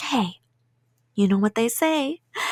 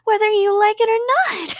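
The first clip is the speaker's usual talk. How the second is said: menacing; 8 semitones higher, 4 dB louder than usual. Acted. Yandere declaring captive stays forever.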